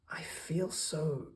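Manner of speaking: high, slow, awed little voice; tiny and overwhelmed; small snail voice. A narrator's reading. Snail telling the whale she feels small, high and slow. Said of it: "she said to the whale".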